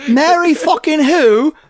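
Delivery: mock outraged question, breaking into laughter; laughing through quote. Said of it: "I'm waiting for him to say".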